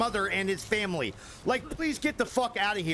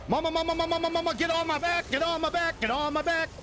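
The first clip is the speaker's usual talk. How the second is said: high cartoon child voice; 9 semitones higher, faster than usual. Streamer voices creature calling mama.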